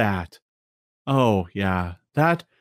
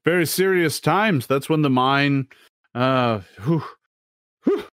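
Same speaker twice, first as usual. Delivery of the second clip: shuddering NPC; 3 semitones lower than usual. Acted. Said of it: "He kind of shudders".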